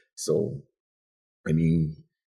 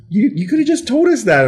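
high, loud mock-exasperation; exasperated friends; 6 dB louder than usual. Teacher friends to Glenn, high exasperated. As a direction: throw up your hands at him. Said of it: "And they're like".

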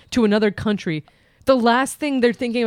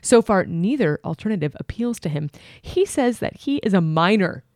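letter reading. Acted. Reads Dear Abby letter aloud.

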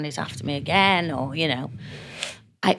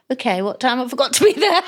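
suddenly eager; 7 semitones higher, 4 dB louder than usual. Retold or imitated. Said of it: "And I went".

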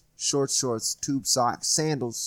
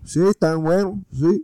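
put-on much higher old man voice; higher cartoonish old man; mock old Puerto Rican man; 8 semitones higher, 7 dB louder than usual. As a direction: play the innocent old neighbor. Old man answering cops.

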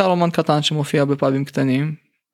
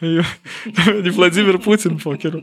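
tough Russian guy; 4 semitones higher than usual. Retold or imitated. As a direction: puff up like a KGB agent. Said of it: "ופה הם אומרים".

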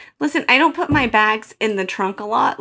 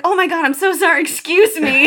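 apology said aloud, a touch higher; said out loud; 4 semitones higher than usual. Retold or imitated. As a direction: blurt the apology out loud to a stranger. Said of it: "I said it loud".

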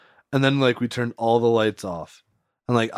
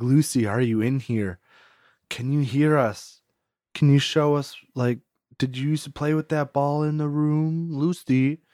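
mock ghost hunter; 4 semitones higher than usual. Ghost hunters questioning Lucy in the room, lightly mocked ghost-hunter voice. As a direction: call gently to a spirit, mildly hammed-up. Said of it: "like, ghost hunter episodes where they're like".

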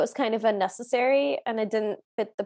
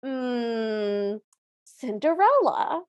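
lightly acted stepmother reading out a list; mock stepmother. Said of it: "then the stepmother goes".

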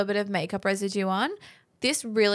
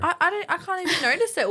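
talking while drooling; 9 semitones higher, faster than usual. Real, not acted. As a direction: saliva spilling while speaking. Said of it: "I just dribbled everywhere".

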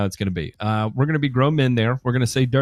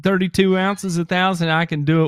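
excited rant; 4 semitones higher than usual. Real, not acted. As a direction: push the point, getting worked up. Heated rant about spraying.

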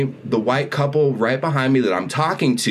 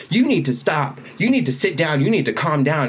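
retold scolding; 4 semitones higher than usual. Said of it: "So she starts attacking me".

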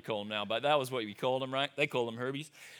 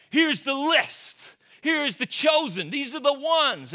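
slow, higher, deliberate coach voice; 10 semitones higher, 5 dB louder, slower than usual. Retold or imitated. Paul pictured as coach, slow and deliberate. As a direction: lay out the chosen list like a hockey coach. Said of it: "he's like".

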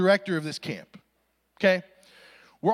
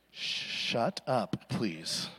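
much softer and lower, pleading; desperate hushed plea; 10 semitones lower, 9 dB quieter, much slower than usual. Retold or imitated. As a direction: beg him to shut up under your breath. Begging friend to stop talking.

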